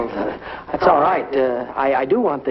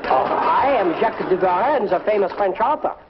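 hammed-up French accent, a touch higher; bad French accent; 3 semitones higher than usual. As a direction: fake the French accent badly on purpose. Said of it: "a very bad French accent".

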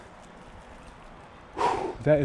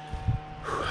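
heavy panting breath; 8 dB quieter than usual. Real, not acted. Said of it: "Sorry, I'm out of breath".

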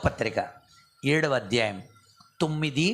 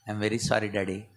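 daughter's tearful sorry; 9 semitones lower than usual. Retold or imitated. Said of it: "ఏడ్చేస్తుంది".

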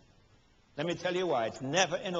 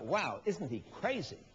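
mocking disbelief; 4 dB quieter than usual.

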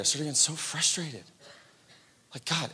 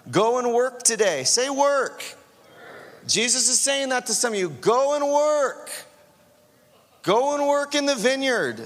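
louder, higher full-force preaching; 5 semitones higher, 3 dB louder than usual. Acted. Pastor preaching the parable of the two sons to the congregation. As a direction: preach it to the whole room.

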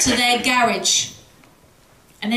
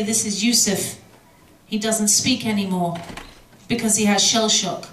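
grieving mother; 3 semitones lower than usual. Retold or imitated. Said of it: "They say".

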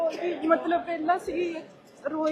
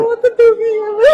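loud wailing sob, voice breaking; real crying; 5 semitones higher, 16 dB louder than usual. Real, not acted. Grieving mother tells the worker she is suffering, loud crying wail. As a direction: cry it out loud, overwhelmed with grief. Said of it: "ਰੋ ਨਾ, ਰੋ ਨਾ".

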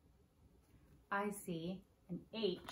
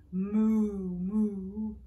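review moo; 8 dB louder than usual. Shown as a demonstration. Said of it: "So let's review".

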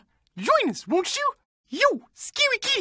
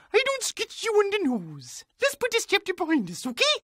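ordinary delivery

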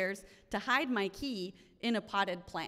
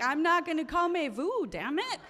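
high, louder exasperated snap back; retold outburst; 7 semitones higher, 4 dB louder than usual. Narrator snapping at hotel staff telling her to calm down, exasperated. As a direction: fire it back at them, fed up.

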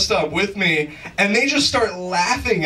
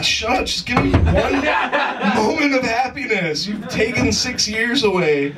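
mock exasperated dad; 7 semitones higher than usual. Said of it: "And I'm like".

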